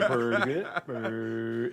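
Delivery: laughing through a stuck stutter; held-word stutter. Retold or imitated. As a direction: catch on each word. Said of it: "he stuttered, but he held his words".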